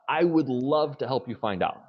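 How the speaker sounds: bright eager offer, lifted high; excited, enthusiastic. Shown as a demonstration. Receptionist eagerly answering a price question, enthusiastic. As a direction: sound thrilled to help. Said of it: "in an excited, enthusiastic tone".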